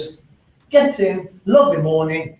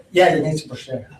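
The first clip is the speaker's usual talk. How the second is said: ordinary delivery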